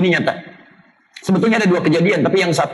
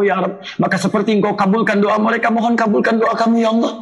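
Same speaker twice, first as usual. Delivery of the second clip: supplication prayer. Acted. Preacher voices a model prayer.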